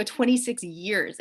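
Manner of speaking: "Twenty-six years" said slowly, each word spaced out; slow repeat. Retold or imitated. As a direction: spell out "Twenty-six years" slowly for someone who didn't catch it. Repeats after he says what.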